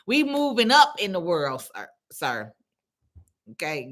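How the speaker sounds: normal talking voice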